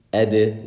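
"ed" with a bounce after the d; qalqala bounce. Shown as a demonstration. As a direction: pop the final d of "ed" open. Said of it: "We do qalqala when we stop on it".

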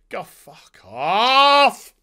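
loud, slow, stretched yell; real frustrated yell, stretched long; drawn-out yell. Real, not acted. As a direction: draw it out as you shout it off. Final outburst at the show.

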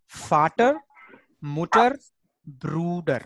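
"Vater, Mutter, Bruder" one by one, last falling; teacher's list for repetition; German pronunciation drill. Shown as a demonstration. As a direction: say Vater as fa-ter, Mutter as moo-ter, Bruder as broo-der. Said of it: "what is the pronunciation".

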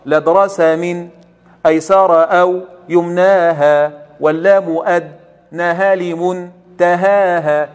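very slow, drawn-out recitation; slow recitation of the verse to scan. Shown as a demonstration. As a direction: recite slowly so the metre can be heard. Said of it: "قال رحمه الله".

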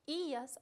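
ias with the i stressed and held. Shown as a demonstration. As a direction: lean on the i in ias. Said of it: "acento sobre i".

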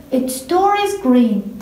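slow, deliberate model line; slow example reading. Shown as a demonstration. Teacher reviewing the example with students, slowly. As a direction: give it word by word. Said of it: "reviewing examples".

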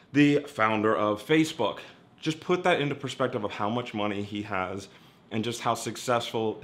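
talking with gum in mouth; words around a wad of gum; chewing gum. Real, not acted. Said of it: "Sorry, I have gum in my mouth".

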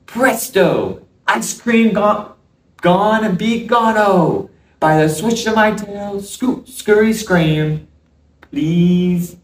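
pleading magic spell; excited. Acted. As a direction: cast it eagerly, rising. Tries magic words again.

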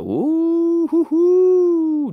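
high, slow whooping hoots; excited hooting. Real, not acted. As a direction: hoot it out high and drawn. Excited hooting at market drop.

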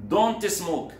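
high, loud barked warning; sharp command. Acted. Teacher voicing Nader forbidding smoking, sharp loud order. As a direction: bark the ban at him.

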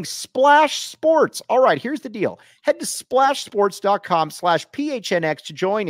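lively host promo read; sponsor ad read. Acted. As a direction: sell the sponsor with punched-up key words.

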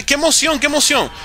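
high, excited crowd imitation; mock hype. Streamer mimicking hyped fans of a remake, mock excitement. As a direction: imitate overhyped fans gushing. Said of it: "la gente estaba muy hypeada".

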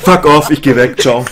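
yelling with joy; excited shout. Real, not acted. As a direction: scream it out in disbelief. Jackpot win, screaming in disbelief.

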